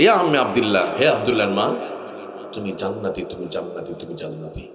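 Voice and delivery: fading from firm call to a hushed murmur; tender graveside farewell. Acted. Imam farewells wife at grave.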